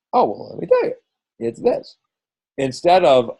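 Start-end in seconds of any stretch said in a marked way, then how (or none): 0.1-2.0 much higher, bright and eager sales pitch; gushing, high-pitched mock answer; eager mock reply. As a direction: jump up high like you can't wait to tell them. Coach acting out eager reply.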